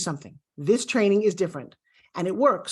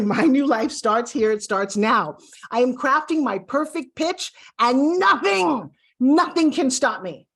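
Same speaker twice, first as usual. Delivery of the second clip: slow empowering affirmation; 3 semitones higher, 4 dB louder, slower than usual. Shown as a demonstration. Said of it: "say out loud".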